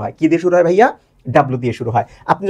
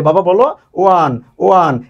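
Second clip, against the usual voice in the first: put-on coaxing a child; 3 dB louder, slower than usual. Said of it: "বাচ্চাদেরকে বোঝানোর জন্য".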